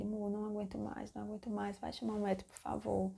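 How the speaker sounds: imitated soft, weary begging; quiet pleading. Labouring woman begging her partner to fetch the doctor, soft plea. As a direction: plead under your breath, worn down.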